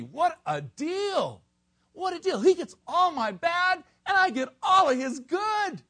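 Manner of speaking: high, loud exultant preaching; thrilled cry of a preacher; excited exclaiming. Real, not acted. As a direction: rejoice out loud over the deal. Preacher exults over the exchange.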